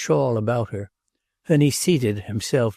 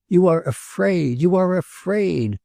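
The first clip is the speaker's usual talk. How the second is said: accusing cry; 8 semitones higher than usual. A narrator's reading. Prince accuses the old woman, high accusing cry. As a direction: fling the words at her as a charge. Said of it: "cried the visitor".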